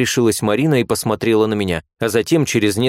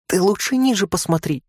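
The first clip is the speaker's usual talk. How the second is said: cheeky giggle; 10 semitones higher than usual. A narrator's reading. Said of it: "хохотнула третья".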